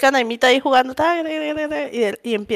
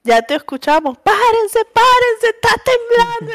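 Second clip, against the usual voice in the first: imitating mom; 11 semitones higher than usual. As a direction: parrot the alarm in a shrill mom voice. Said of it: "mi mamá así como que".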